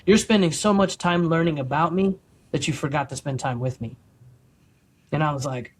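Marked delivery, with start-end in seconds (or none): 0.0-4.0 soft, kind voice of God, fading quieter; tender, gentle rebuke. Retold or imitated. God gently correcting Michael, soft and kind. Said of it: "real gentle and soft and kind".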